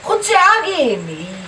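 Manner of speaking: declaimed verse, lifting on the repeat; poetry recitation. Acted. Poet giving the gathering her last stanza, declaimed verse. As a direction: recite the couplet with sustained line endings.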